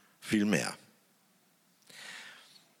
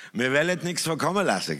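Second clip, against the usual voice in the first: put-on Swabian accent, pitched higher and louder; Swabian dialect; 6 semitones higher, 4 dB louder, faster than usual. Mocking the stingy Swabian in broad Swabian accent. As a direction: put on a thick Swabian accent for the thrifty man. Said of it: "erschreckend schwäbisch".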